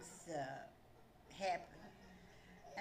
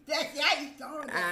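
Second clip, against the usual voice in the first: louder, slow, laughing tease; 7 semitones higher, 11 dB louder, slower than usual. Real, not acted. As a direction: laugh while teasing her. Laughing accusation.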